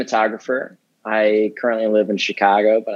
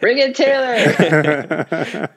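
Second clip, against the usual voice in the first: slow, laughing through the words; 8 semitones higher, much slower than usual. Real, not acted. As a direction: chuckle it out slowly. Joking about zooming fiancée in.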